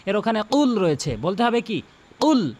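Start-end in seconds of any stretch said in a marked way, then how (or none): 2.2-2.5 কুল with the heavy Arabic qaf; correct Qul. Shown as a demonstration. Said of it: "practice করবেন আমার সাথে বারবার".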